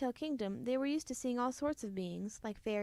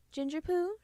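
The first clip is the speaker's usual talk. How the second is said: high, loud sing-song call; calling through the door; 6 semitones higher, 4 dB louder than usual. A narrator's reading. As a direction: call her child from outside the door. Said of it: "she called".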